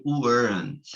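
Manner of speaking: weren't said as one short word; weren't run together, contracted; contracted form. Shown as a demonstration. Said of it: "se eu quiser abreviar".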